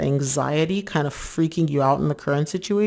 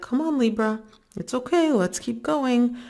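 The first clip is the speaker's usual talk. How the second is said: higher, light coaxing voice of the partner; 7 semitones higher than usual. Retold or imitated. Partner soothing a panicking Libra, high and coaxing. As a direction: gently urge them to keep going. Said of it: "your person's like".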